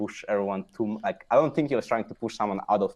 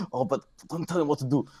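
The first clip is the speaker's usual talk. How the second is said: higher, put-on complaining voice; mock whiny teammate; 6 semitones higher than usual. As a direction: play the annoyed teammate.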